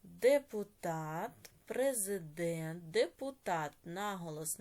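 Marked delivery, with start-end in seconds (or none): 0.0-1.5 ДЕПУТАТ slow and loud, syllable by syllable; slow dictation. Shown as a demonstration. Word dictated, then repeated for marking. 1.6-2.9 slow dictation. Shown as a demonstration. Teacher dictates words for writing.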